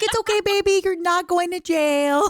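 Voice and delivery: high, loud mock cooing through laughter; reassuring police officer. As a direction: soothe a crying driver like a baby, hammed up. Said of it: "He's like".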